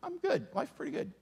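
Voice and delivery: soft, stammering "good" through a laugh; hesitant laughing "I'm good". Retold or imitated. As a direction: laugh nervously while insisting. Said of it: "The one in the middle".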